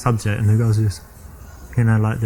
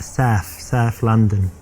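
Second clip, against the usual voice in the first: broad South London vowels; South London accent; much slower than usual. Shown as a demonstration. Londoner showing a date the local speech, strong South London accent. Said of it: "they have a strong accent there".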